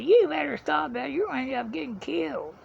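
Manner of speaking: lightly voiced mom warning her son; imitating worried mom. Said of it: "And she said".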